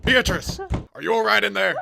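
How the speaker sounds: loud, high call through a door; urgent shout, high and loud. Acted. Sheriff bangs door calling out.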